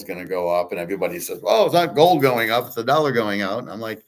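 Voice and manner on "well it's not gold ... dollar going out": louder, higher quoted objection; imitated know-it-all. Host quotes what everybody says about gold, imitated know-it-all. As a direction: pitch it up as everybody's pat line.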